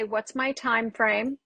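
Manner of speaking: slow, even-toned retold question; calm. Coach to production about a rushed accent request, calm. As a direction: ask it calmly and unhurried. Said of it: "I calmly say".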